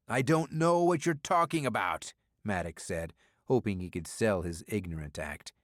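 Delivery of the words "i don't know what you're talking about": feigned innocence. Acted. Maddox feigning ignorance.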